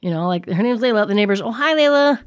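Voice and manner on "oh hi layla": high, sweet sing-song greeting; mock neighbor greeting. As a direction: coo the name like a cheerful neighbor.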